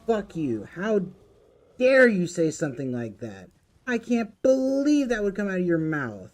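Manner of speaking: loud, high outraged shouting; furious yelling. Real, not acted. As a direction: scream it at the troll, genuinely disgusted. Streamer raging at chat message.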